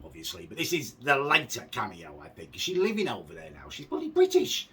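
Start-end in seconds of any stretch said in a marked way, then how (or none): 3.7-4.7 exasperated. Real, not acted. Ranting about the flag.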